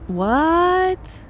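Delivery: high startled outburst; shocked shout. Acted. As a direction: blurt it out in shock. Character shocked by the claim.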